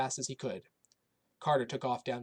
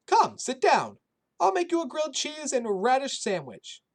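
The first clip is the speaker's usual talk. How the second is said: put-on high, loud old Polish woman's accent; kindly old woman with a thick Polish accent; 13 semitones higher, 9 dB louder than usual. A narrator's reading. Shelter cook greeting the boy in a thick Polish accent. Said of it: "in her thick Polish accent".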